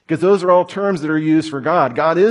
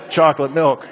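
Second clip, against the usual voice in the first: understated mock-serious toddler, no yelling; imitated child's matter-of-fact, businesslike demand; like a lawyer. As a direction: state the demand like a tiny lawyer. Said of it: "calls me James like a lawyer".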